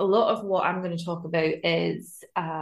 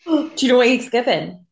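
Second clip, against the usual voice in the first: louder, gasping excited question; 5 semitones higher, 7 dB louder than usual. Real, not acted. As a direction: gasp and rush it out. Gasps then excited question.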